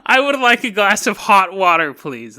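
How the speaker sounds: dainty mock politeness; prim polite request. Shown as a demonstration. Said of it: "repeated line".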